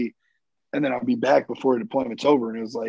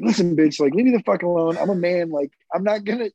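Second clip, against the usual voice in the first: retold snapping; 4 semitones higher than usual. Wounded Marine snapping at a fussing older nurse, angry. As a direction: snap at her like you want her gone. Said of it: "snapping at her".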